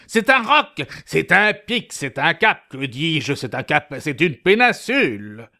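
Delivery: building grand description; descriptive. Acted. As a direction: paint it bigger with each word.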